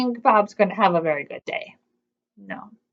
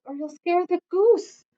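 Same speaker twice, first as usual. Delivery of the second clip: whispering; 6 semitones higher, 5 dB quieter than usual. A narrator's reading. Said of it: "whispered Bob".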